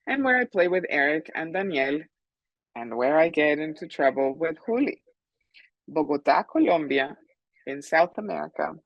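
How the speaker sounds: put-on lively picture-book reading to children; story read-aloud. A narrator's reading. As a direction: read it out with emphatic key words. Author reads her story to children.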